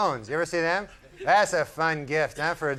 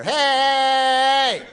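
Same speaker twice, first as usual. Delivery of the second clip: much higher, sharp mock cry of alarm; sudden higher hey of realization; 8 semitones higher than usual. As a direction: snap awake to the trick. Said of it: "I go".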